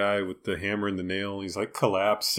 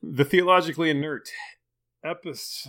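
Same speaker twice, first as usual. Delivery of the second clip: nerd voice; 4 semitones higher, 3 dB louder than usual. Shown as a demonstration. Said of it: "it's a nerd voice".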